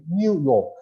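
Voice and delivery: British y-glide after the N in New York. Shown as a demonstration. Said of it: "If you're using British English".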